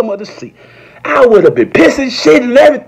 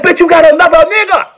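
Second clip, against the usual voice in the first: accusing, a touch angry; 10 semitones higher than usual. Retold or imitated. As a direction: throw the accusation at her, hammed up. Accusing girlfriend of cheating.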